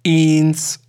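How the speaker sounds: put-on echoing old man. A narrator's reading. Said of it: "echote ein jeder kleine alte Herr".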